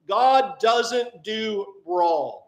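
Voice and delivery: very slow, every word weighted; God doesn't do wrong, spoken very slowly with weight on each word; emphatic slow statement. Acted. Preacher repeating the key line.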